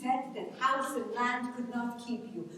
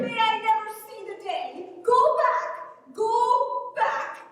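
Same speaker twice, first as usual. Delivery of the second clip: higher and louder, snapping; angry outburst; 8 semitones higher, 4 dB louder, slower than usual. Acted. Ellen to Matt, sending him back to his father, angry. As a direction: fling the words at him in anger.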